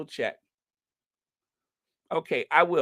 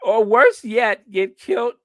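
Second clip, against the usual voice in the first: put-on Scottish accent; 6 semitones higher, 7 dB louder than usual. Host finally landing the punchline, Scottish accent. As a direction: belt out amateur Scottish. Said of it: "trying to do a Scottish accent".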